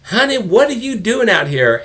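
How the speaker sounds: high, sing-song imitation of a friend calling "Honey"; Tasha's voice. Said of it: "all of a sudden I hear this".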